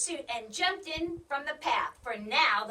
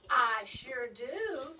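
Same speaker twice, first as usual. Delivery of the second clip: bragging; slower than usual. Acted. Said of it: "bragged Muffletup".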